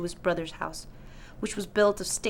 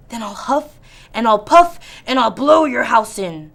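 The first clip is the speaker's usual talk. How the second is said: wolf threat; 2 semitones higher, 9 dB louder than usual. Acted.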